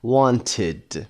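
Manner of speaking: "wanted" in two syllables, want-id. Shown as a demonstration. Teacher illustrating the rule, "wanted" with full id ending. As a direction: sound out the E in "wanted".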